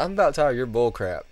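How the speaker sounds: put-on loud country-accented griping; mock fed-up customer with a country accent. Customer tired of the clerk's act, country accent. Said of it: "He's got a real country accent".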